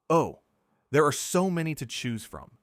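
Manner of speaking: lightly derisive, lifted voice; mocking, dismissive. A narrator's reading. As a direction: brush it off with lofty scorn. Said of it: "the mocking tone".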